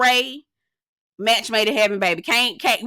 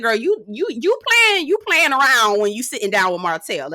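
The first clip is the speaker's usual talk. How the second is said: exasperated scolding; 4 dB louder than usual. Retold or imitated. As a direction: scold her, voice jumping up. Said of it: "I said".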